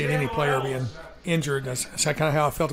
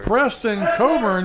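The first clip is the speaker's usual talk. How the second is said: excited; 5 semitones higher, 3 dB louder than usual. Real, not acted. Naming the receiver.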